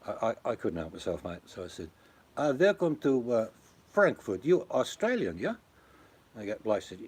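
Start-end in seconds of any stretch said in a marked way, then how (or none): 2.3-5.6 raised, louder put-on welcome, hamming it up as a local; playfully fooling fellow Aussies like a Frankfurt local; mock local greeter. Teasing Australian couples in Frankfurt, raised mock welcome.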